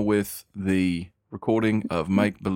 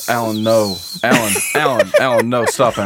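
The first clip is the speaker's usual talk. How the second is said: loud laughing scold; 5 dB louder than usual. Real, not acted. Laughing, scolding friend loudly.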